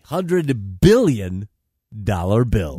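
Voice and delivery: comedy newscast with punchy phrasing; mock news read. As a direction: read it like a satirical anchor. Reads mock news items.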